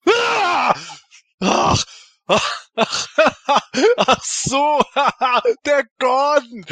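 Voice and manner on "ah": sudden high startled cry; startled yelp. Acted. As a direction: jump with fright. Startled by ghost appearing.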